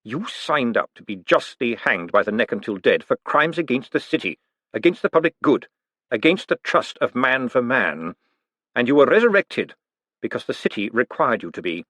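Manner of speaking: icy, measured menace; cold and deadly. Acted. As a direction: deliver judgment coldly. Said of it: "his voice suddenly as cold and deadly".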